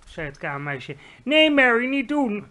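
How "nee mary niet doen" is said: high, loud, sharp stop; queen's sharp high order; sharp command. Acted. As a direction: cut the maid off sharply. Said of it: "zo scherp".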